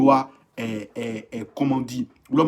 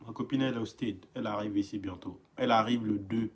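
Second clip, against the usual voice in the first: lightly voiced boastful guy; 7 semitones lower, 9 dB quieter, faster than usual. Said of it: "WhatsApp Comedy".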